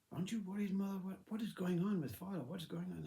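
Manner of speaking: high, anxious questioning; acted worry. Children asking mother about father, worried and insistent.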